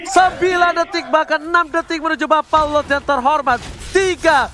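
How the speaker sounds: excited countdown. Real, not acted. Countdown to Lord spawn.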